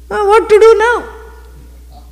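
high, slow, wailing lament; ayyo wail. Pretend. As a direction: wail it like a helpless devotee. Repeated as a comic wail.

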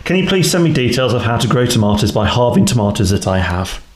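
lightly voiced posh reader; a hint of a posh letter reader. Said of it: "I'm putting the posh voice on".

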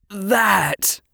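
trembling with pride. Acted. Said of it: "his voice trembling because he couldn't quite keep the pride".

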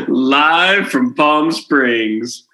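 slow, teasing repeat; bleeped out. Real, not acted. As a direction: drag it out on purpose. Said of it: "have to bleep it again".

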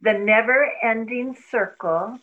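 slow sacred mantra line. Acted. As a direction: draw out each word of the chant. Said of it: "read the mantra slowly".

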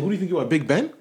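loud, high mock indignation; sneering quote of the client; mocking the rude client. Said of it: "he's like".

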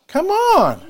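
exhorting cry. Real, not acted. Preacher exhorting congregation.

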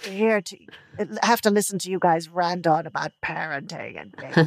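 light Welsh accent impression; a hint of Welsh lilt; Alad's Welsh accent. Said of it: "That's, that's an amazing impression of Alad".

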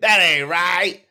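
high, loud, slowed Chris Rock squeal; outraged comic Chris Rock voice; Chris Rock impression. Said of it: "like Chris Rock said".

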